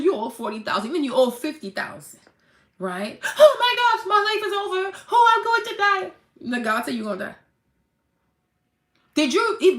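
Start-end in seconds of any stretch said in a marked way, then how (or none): 3.4-6.1 high, loud hammed-up wail of doom; mock despair. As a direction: overplay the debtor's despair. Mock panic over debt.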